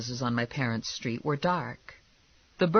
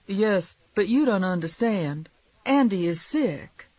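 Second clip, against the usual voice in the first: higher-pitched worried wife; pleading wife; 6 semitones higher, 4 dB louder than usual. Acted. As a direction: plead lightly for understanding.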